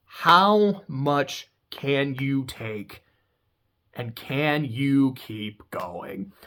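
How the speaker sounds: slow hushed whisper for drama. Real, not acted. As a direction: whisper it slowly, pulling the listener in. Dramatic endurance challenge emphasis.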